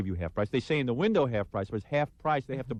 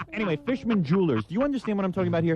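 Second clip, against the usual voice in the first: exasperated push; 8 semitones higher, faster than usual. Real, not acted. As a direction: force the pitch through laughter. Exasperated ad read.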